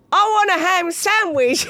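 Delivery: high, slow, giggling demand; laughing request. Retold or imitated. Comic quoting a friend's sandwich order, high and laughing. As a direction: whine it through laughter.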